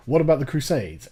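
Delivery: lightly mocking the critic's question; imitating a critic. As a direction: toss off the familiar objection with mild mockery. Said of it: "the one thing I do hear".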